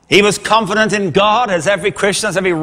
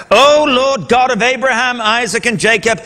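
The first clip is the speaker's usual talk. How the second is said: praying aloud. A narrator's reading. Elijah's first prayer to the God of Abraham, praying aloud. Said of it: "Here's his first prayer".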